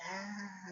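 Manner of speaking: high, soft "ah"; half-hearted yell of someone falling; mock falling cry. Character pushed off a ledge.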